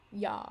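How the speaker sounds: Ya with a wide open mouth. Shown as a demonstration. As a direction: drop the jaw on Ya. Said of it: "and go like this".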